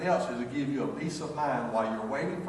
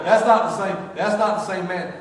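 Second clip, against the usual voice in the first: mock disbelief; 6 semitones higher, 8 dB louder than usual. Mock sons' disbelief, louder, higher.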